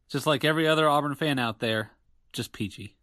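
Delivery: dry, sarcastic; deadpan sarcasm, just peachy. Real, not acted. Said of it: "there's so much sarcasm in your voice".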